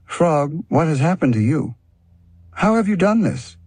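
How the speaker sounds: very high, amazed cry; astonished. Acted. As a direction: gasp it out in disbelief. Cat sees frog transformed.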